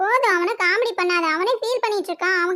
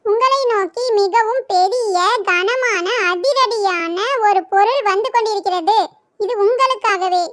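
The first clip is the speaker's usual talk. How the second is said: loud slow reading; 4 dB louder, slower than usual. Acted. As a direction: read each word out loud and slowly. Reading the game note aloud. (சத்தமாக, மெதுவாக வாசித்தல்)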